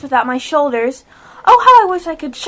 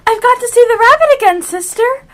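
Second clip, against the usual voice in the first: eager rush; 5 semitones higher, 4 dB louder than usual. Acted. Alice hurrying away excited.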